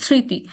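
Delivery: স্মৃতি as "sriti" with a nasal tinge; slightly nasal. Shown as a demonstration. Teacher repeating the example, nasal sound in স্মৃতি. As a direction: say স্মৃতি a little through the nose. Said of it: "নাকে নাকে কথা আছে".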